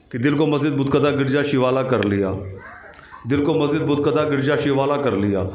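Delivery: even, measured Urdu verse recitation; शेर-पाठ. Acted. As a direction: recite the couplet evenly, as an opening reading. शेर दोहराता है. (सधे स्वर में शेर पढ़ना)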